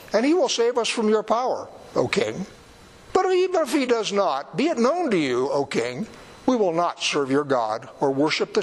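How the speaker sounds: stiff, proud refusal, lightly performed; a hint of starchy defiance toward the king; starchy and rude. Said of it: "how starchy and rude this is".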